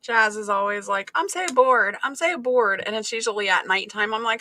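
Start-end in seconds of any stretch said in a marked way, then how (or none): 1.2-2.8 higher, whiny mock complaint; imitating bored kid. Daughter complaining to mom at night, mock-whiny.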